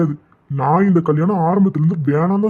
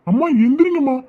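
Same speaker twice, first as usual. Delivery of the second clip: higher, frantic calls to wake mother; panicked calling; 4 semitones higher than usual. Acted. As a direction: shake her awake in alarm. Son finds collapsed mother. (மயங்கிய அம்மாவை எழுப்ப பதறும் மகன்)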